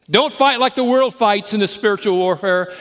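loud, high, driving sermon climax; full-force preaching. Acted. Preacher rallying the congregation to spiritual war, at full force. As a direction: preach it hard, hammering every line.

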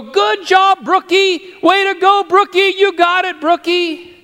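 put-on very high, loud childish cheering; excited little boy. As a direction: squeal like a three-year-old cheering Grandpa. Ian cheering his sister.

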